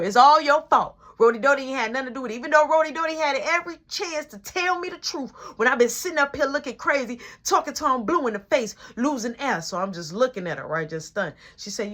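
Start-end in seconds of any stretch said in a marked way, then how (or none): 0.0-9.6 mom's raised, scolding voice, a bit louder and higher; angry mom scolding. Retold or imitated. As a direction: scold him like a furious mother.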